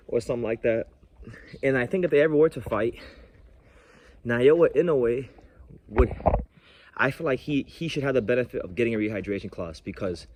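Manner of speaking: out of breath from walking uphill; heavy breathing. Real, not acted. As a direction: talk while breathing hard. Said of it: "I'm sorry for the breath".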